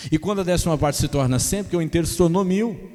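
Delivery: loud, ringing sermon cadence; preaching at full force. Acted. Pastor proclaiming to church, loud and ringing. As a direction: drive the point home to the congregation.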